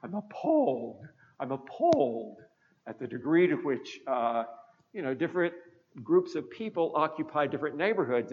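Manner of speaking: imitating a snooty British reporter's accent; snotty British accent. British reporter touring US cities, mock snooty British accent. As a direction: put on a haughty British accent, lightly done. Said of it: "in her very snotty British accent".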